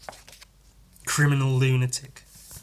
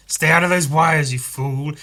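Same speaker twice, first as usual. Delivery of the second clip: louder, higher villain snap; angry villain yell; 4 semitones higher, 8 dB louder than usual. Acted. Villain yelling at the hero's head, loud and angry. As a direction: yell at the meddler to stop.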